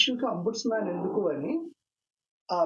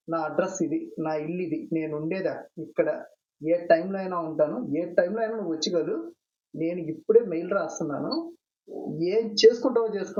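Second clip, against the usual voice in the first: retold defiance. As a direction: stand your ground, then throw down the challenge. Defiant reply to phone threat.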